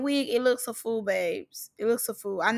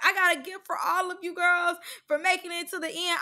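higher-pitched mock announcement; lightly imitated Biggie; 6 semitones higher than usual. Reactor quoting Biggie promising gifts, lightly put-on hostess voice. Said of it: "Biggie was like".

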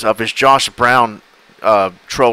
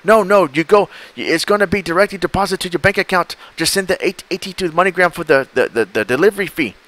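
higher, pushy and impatient; impatient scammer; 6 semitones higher than usual. Retold or imitated. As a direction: hurry the dumb victim along.

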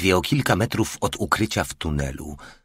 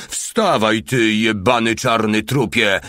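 raised, higher angry narrated shout; angry yelling; 3 semitones higher, 4 dB louder than usual. A narrator's reading. Mały kicking Alfred to get up, yelling angrily. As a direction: yell the order in a fury. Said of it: "wrzeszczał mały".

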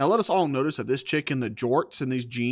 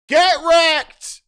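loud, high, laughing jeer; laughing taunt; 13 semitones higher, 9 dB louder than usual. Real, not acted. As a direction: cackle it at her.

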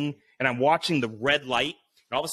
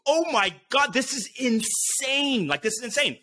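higher, slowed, disbelieving; freaked out; 8 semitones higher than usual. Retold or imitated. Trapped between cactus and snakes, slow and higher in alarm. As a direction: breathe it out in alarm. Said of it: "So I'm just like".

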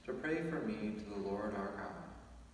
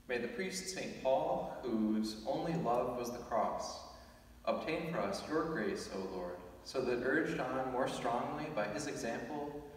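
solemn, measured collect prayer. Real, not acted. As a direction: pray it aloud to the congregation. Priest prays collect aloud.

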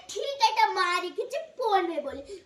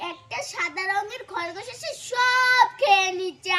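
put-on louder wailing child's complaint; acted crying; 5 dB louder than usual. Child blames a white rabbit to mother, mock wailing. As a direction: draw it out into a mock wail. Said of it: "তাহলে কাঁদছিস কেন?".

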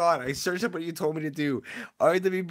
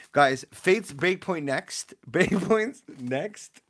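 drawn-out announcement; 5 dB louder, much slower than usual. Real, not acted. Announcing the next game.

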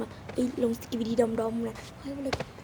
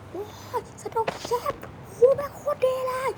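rowdy excitement; 11 semitones higher than usual. Acted. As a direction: whoop it up like you love the film. Friends rowdy in cinema hall.

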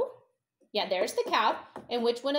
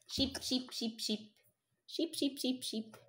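murmuring; 10 dB quieter than usual. Real, not acted. Searching while murmuring.

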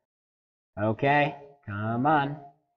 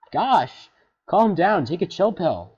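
exasperated; 6 semitones higher, 6 dB louder than usual. Real, not acted. Scolding the fish.

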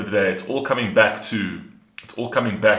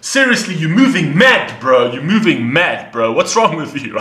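louder, much higher, disbelieving; incredulous outburst; 6 semitones higher, 7 dB louder than usual. Real, not acted. Reactor shouting at Sloth for stopping the rap, incredulous. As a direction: yell at your mate for ruining the moment.

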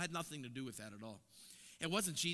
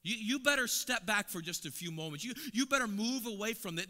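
normal talking voice

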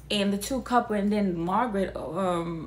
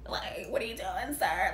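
soft, disbelieving whisper; 4 semitones lower, 5 dB quieter than usual. Real, not acted. Asking the man saving the old lady, whispered. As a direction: whisper it at the screen.

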